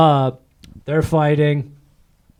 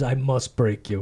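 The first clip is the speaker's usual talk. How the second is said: Drago impression; 2 semitones lower, 4 dB quieter, slower than usual. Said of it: "He slammed the gloves".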